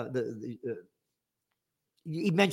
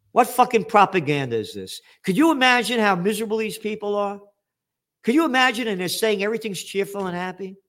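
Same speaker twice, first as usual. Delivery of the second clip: outraged; 4 semitones higher than usual. Real, not acted. Outraged at cheerful propaganda.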